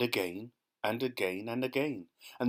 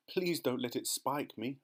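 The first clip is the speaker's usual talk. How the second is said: begging; 2 semitones higher than usual. Acted. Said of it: "begged the earthworm".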